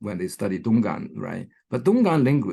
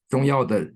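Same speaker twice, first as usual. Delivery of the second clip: "Zhongyao de" with YAO stressed; 2 semitones higher, 4 dB louder than usual. Shown as a demonstration. Lecturer reads phrase book example, "Zhongyao de" stressed on YAO. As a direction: put the weight on YAO in "Zhongyao de". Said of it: "yao is stressed".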